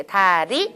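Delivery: 다리 low, with one flick on ㄹ; single tap. Shown as a demonstration. Teacher repeating the Korean tap in 다리. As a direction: flick the tongue once for 리 in 다리. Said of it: "한 번씩 쳐야 돼".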